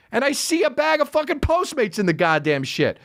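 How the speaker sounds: ordinary delivery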